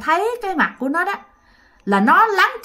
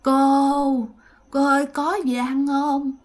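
moaning ghost woman; 2 semitones higher than usual. Retold or imitated. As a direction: beg for food in a weak, moaning ghostly voice. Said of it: "bả vừa xin mà bả vừa rên".

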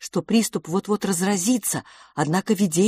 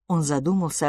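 plain reading voice

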